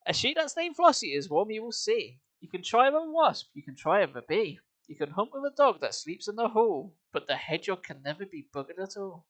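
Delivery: sing-song rhythmic verse reading with a heavy beat; poem recitation. Acted. Streamer reads a bawdy song to chat as rhythmic verse. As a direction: recite the verse with a bouncing meter, fighting back giggles.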